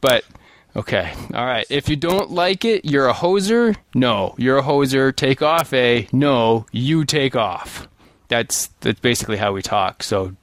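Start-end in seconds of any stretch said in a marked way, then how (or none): 1.7-7.9 reading a Canadian jab. Retold or imitated. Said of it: "It says".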